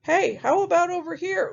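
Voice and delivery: high pig making a suggestion; high-pitched storybook pig; second little pig. Acted. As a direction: pipe up in a high piglet voice. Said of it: "The second pig says".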